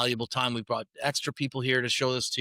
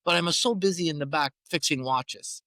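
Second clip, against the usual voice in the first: Italian jeweller; 6 semitones higher than usual. Retold or imitated. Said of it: "He goes".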